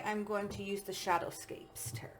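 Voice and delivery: soft unvoiced whisper. Real, not acted. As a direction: whisper it to yourself. Aside while handling the cards.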